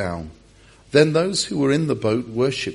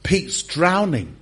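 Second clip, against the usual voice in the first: mock alarm; 3 semitones higher than usual. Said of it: "Jesus looks at Pete and he thinks".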